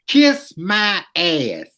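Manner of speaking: dragged out, each word slow; slow deadpan quote. Retold or imitated. S0 repeats Baxley's reply to the editor, slow and deadpan. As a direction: savor it slowly like a punchline. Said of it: "That was the response".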